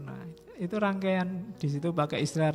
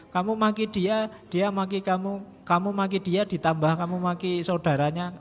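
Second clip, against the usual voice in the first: louder and higher with each insult; building insistence; 3 semitones higher, 5 dB louder than usual. Acted. Lecturer escalating as he lists trading insults. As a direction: pile on the insults with rising heat.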